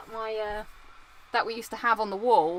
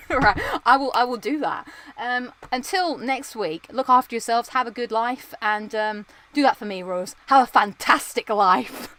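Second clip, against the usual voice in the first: put-on terrible northern accent. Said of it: "Terrible northern accent".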